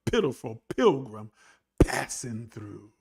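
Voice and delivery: low, subdued mock-pitiful voice; mock self-abasement. Preacher posing as a pitiful pilgrim, mock self-abasement. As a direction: play the poor sinner, low and downcast. Mocking believers' lowly self-description.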